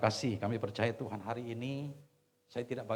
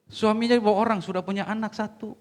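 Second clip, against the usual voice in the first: much louder and higher; emphatic repeat; 11 semitones higher, 11 dB louder than usual. Real, not acted. Preacher stressing the husband was taken, loud and high. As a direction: hammer the point home.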